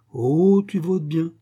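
high, emphatic gushing 'oh'; mock flattery. Wife parroting praise of the voter, mock flattery. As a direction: swoop up in exaggerated admiration.

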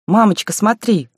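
put-on high, thrilled little girl; excited child. A narrator's reading. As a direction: call out to mum with delight. Girl runs excited with toy.

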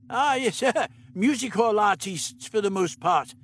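put-on amused elderly Doctor. A narrator's reading. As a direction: chuckle as the Doctor.

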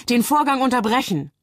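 high-pitched urgent interruption; winded, agitated. A narrator's reading. Bell rushes in to halt the procedure, agitated. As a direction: puff it out urgently, a touch breathless. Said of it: "schnauft er".

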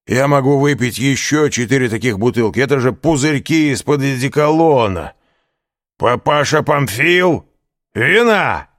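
high, loud boastful tipsy voice; drunken bluster. A narrator's reading. Caderousse boasts and calls the innkeeper for wine, loud and high. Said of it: "вскричал Кадрус".

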